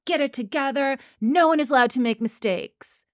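mildly hammed-up tyrant teacher; mock berating. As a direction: scold the class in a put-on voice. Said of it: "he's, like, berating them".

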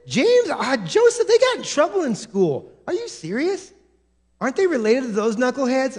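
high, mock-gossip tone; gossipy disbelief. Preacher mimicking townsfolk, high mock gossip. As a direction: play the scandalised neighbour.

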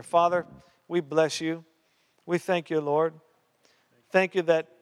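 earnest praying voice; prayer. Acted. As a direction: lift the congregation in prayer. Leads prayer.

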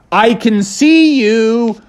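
menacing gator. Acted. Gator reveals himself.

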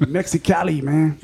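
lightly imitated Mexicali accent; a touch of surfer-slash-Mexican accent. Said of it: "like the surfer slash Mexican accent".

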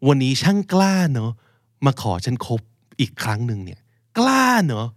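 mock affronted dumped lover; lightly acted indignation at an ex; indignant ex. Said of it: "เอาง่ายๆ เช่นสมมติ".

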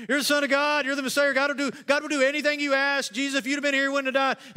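high, loud parody of a pious woman's stock phrases; mocking Martha. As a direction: ham up her cliches to poke fun at them.

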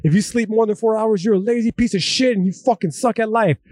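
hypermilitant scolding. Acted. Speaker mimics his hypermilitant mindset about sleep, mock scolding. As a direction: berate a slacker in a put-on militant voice. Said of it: "That's the hypermilitant".

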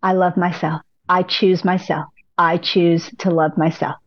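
gentle affirmation. Shown as a demonstration. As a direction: say it kindly to yourself. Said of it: "And then just".

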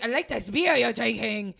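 loud, hammed-up vampire accent; put-on Transylvanian vampire accent. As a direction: imitate an actor's vampire accent. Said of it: "That's my vampire accent".

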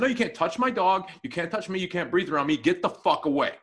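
mildly heated warding-off; retold angry refusal. Telling a stranger to back away from him and dog, retold anger. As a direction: act out telling someone off.

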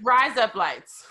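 slow Australian-sounding "rise up lights"; fake Australian accent trick. Shown as a demonstration. American testing an Australian listener, fake Australian accent. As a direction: run "rise up lights" into Australian "razor blades". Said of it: "sounds like I'm saying it in an Australian accent".

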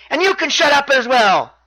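high, irritated mock shout; imitated shout. Champion turns on the chanting audience, high mock shout. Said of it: "Neville shouts to the audience".

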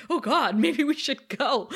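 mildly worried little aside; lightly voiced nervous bystander; a touch of comic worry; worried old man. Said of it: "one guy actually looks worried".

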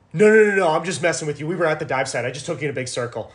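teasing captain owning up to the joke; a lightly voiced jokey captain; imitating the captain laughing it off. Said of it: "He goes".

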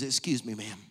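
whispered, tender ask; hushed request. Acted. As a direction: ask in a hush. Pastor asks to hold baby.

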